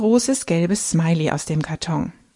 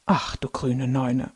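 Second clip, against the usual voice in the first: low, softer, slow murmur; shocked mumble; 5 semitones lower, 5 dB quieter, slower than usual. A narrator's reading. Grandpa mutters in shock at the burglary. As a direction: mutter it under your breath, stunned. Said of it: "murmelt Opa schockiert".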